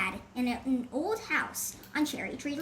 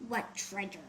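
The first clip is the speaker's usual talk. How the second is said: low, softer pirate sneer; 6 semitones lower, 8 dB quieter than usual. A narrator's reading. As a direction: sneer it down at the kids. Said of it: "one pirate sneered".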